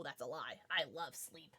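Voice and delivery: hushed whisper. Real, not acted. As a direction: whisper it to yourself. Whispered aside.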